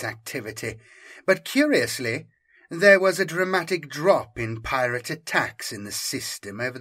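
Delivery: lightly voiced Inquisitor unveiling her theory; inquisitor briefing. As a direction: reveal the hidden threat.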